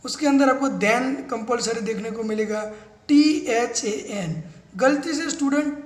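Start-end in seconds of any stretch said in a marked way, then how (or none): 3.1-4.4 slow spelling. Shown as a demonstration. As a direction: spell the letters out slowly and clearly. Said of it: "spelling out for students".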